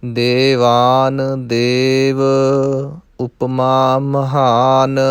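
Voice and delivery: slow, drawn-out chanting of word pairs; slow recitation demo. Shown as a demonstration. Teacher recites Gurbani word pairs slowly for students. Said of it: "ਨਾਣੇ ਨਹੀਂ ਲਾਉਣੇ".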